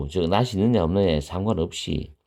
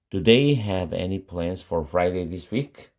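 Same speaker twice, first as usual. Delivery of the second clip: slow, clear repeat; much slower than usual. Shown as a demonstration. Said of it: "teacher repeats the model sentence".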